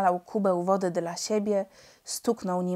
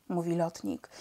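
usual speaking voice

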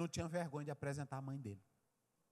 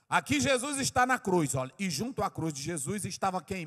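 preaching shout; 3 semitones higher, 8 dB louder than usual. Real, not acted. Preacher points the congregation to the cross, shouting. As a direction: proclaim it at full voice to the congregation.

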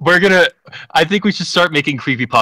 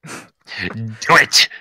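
Emperor voice; 2 semitones lower than usual. Retold or imitated. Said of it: "I don't have the best impressions".

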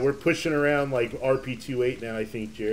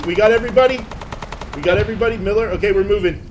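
loud, higher rallying shout; shouted callout; 5 semitones higher, 7 dB louder, faster than usual. Real, not acted. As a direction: call it out over gunfire. Rallying squad under fire.

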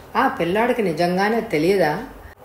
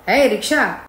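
mildly raised, higher-pitched hail; loud call; 4 semitones higher, 3 dB louder than usual. Acted. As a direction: call out firmly to get the driver's attention. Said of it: "మళ్ళీ పిలిచాడు పెద్దగా".

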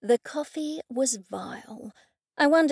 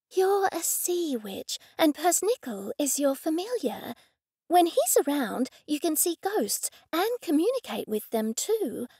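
the speaker's voice; 6 semitones higher than usual. A narrator's reading. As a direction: press on undaunted.

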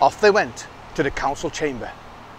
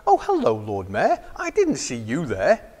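flustered surprise. Acted. Guard caught out, flustered.

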